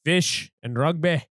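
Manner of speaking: slow, proud foreigner in a light put-on; a hint of a European boasting of home; mock European. Foreigner answering what is good there, slow and light. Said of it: "Isaac's impression of Europeans in general".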